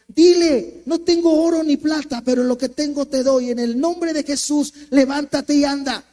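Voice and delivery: loud proclamation, full force; God's voice ordering a healing; commanding divine voice. Retold or imitated. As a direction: preach it like a command from above. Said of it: "la voz de Dios me habla y me dice".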